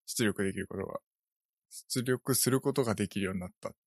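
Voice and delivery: tongue tripping from sleepiness; half-asleep, words won't come out right; sleepy slurring. Real, not acted. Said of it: "口が回らない".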